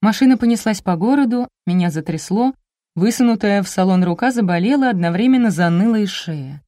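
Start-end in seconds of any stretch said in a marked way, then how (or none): none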